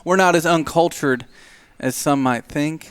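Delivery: indignant retort. Acted. Pine rebukes the crude joke.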